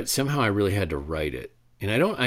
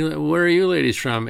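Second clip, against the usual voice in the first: gruff guard; 8 semitones higher, 6 dB louder than usual. Retold or imitated. Customs officer questions drunk driver.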